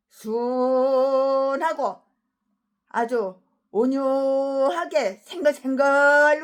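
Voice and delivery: slow, syrupy fake meekness; mock gentle. Shown as a demonstration. Showing how Satan looks meek at first, slow sugary voice. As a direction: play innocent and sweet. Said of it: "생긴 게 요런지 알아?".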